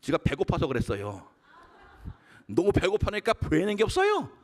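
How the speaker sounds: ordinary delivery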